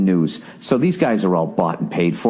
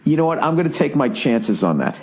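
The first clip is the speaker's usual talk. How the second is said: defiant retort; 3 semitones higher than usual. Retold or imitated. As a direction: throw it back at the salesman. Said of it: "I was like".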